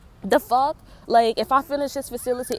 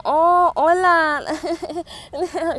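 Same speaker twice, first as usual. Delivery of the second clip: mock Spanish hola; 8 semitones higher, 4 dB louder, much slower than usual. Mocking Hispanic greeting.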